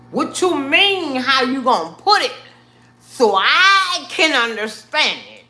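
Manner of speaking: high, loud alarmed questioning; panicked inner voice. Retold or imitated. Reacting to the doctor's words, high loud panicked alarm. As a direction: panic rising in your head. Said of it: "My head was like".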